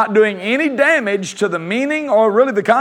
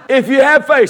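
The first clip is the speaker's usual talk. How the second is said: leading with a laugh; 4 semitones higher, 5 dB louder than usual. Real, not acted. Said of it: "say it".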